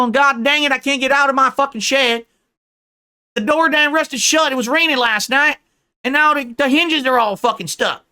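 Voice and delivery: high, loud, hammed-up rival's accent; Ethan Ralph accent. Mocking a rival stuck in Mexico, put-on Ethan Ralph accent. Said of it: "Ooh, the Ethan Ralph accent".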